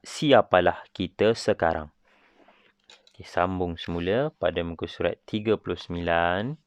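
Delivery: measured, formal school speech; formal speech reading. Shown as a demonstration. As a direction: read it like a head prefect at assembly. Reads a Teacher's Day speech aloud. (pidato formal ketua pengawas)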